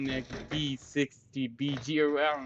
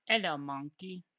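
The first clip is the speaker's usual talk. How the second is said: higher-pitched British greeting; mock British accent; 4 semitones higher than usual. Player greets monkey in chat, mock British accent. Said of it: "British monkey".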